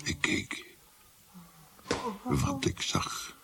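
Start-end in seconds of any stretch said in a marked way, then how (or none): 2.2-3.4 slow, breathy whisper of awe; slow hushed whisper; hushed narration. A narrator's reading. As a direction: whisper it as if still haunted. Narrator hushed at key moment.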